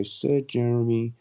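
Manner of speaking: slow, stately title read; a hint of a herald announcing; pompous title, lighter. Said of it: "I'll sir myself".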